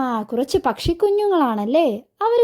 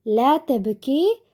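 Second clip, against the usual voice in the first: slow, lightly acted reassurance; consoling baby bird; much slower than usual. Chick comforting a crying sibling, slow and consoling. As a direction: stretch it out to soothe, rising at the end. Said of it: "സമാധാനിപ്പിക്കുകയാണല്ലേ".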